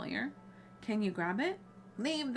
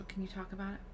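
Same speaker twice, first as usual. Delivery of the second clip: softer, gentle question; concerned; 5 dB quieter, faster than usual. Acted. Player asks Alfie about his memory, soft concern. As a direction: ask softly, with care. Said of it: "I'm gonna be concerned".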